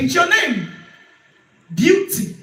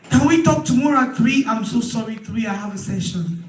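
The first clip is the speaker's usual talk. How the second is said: dodging a caller. Shown as a demonstration. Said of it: "No session, no day".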